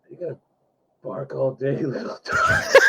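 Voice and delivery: menacing line collapsing into laughter; breaking into laughter. Shown as a demonstration. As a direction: try the threat and crack up. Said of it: "say it like this".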